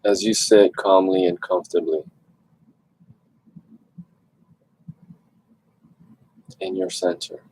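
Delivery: calm meditation guidance with long pauses; guided meditation. Real, not acted. Host leads online group into stillness, guided meditation voice. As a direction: gently guide listeners inward, leaving long silences.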